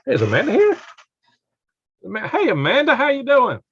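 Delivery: high, loud, bright hello across the room; excited call-out. Real, not acted. Host greeting a viewer in the chat, high and loud call-out. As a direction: call out to her like she's far off.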